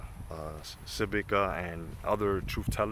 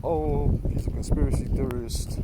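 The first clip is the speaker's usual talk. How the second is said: mocking sceptic voice; 2 semitones higher than usual. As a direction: sneer like a dismissive critic. Mocking critics' voice.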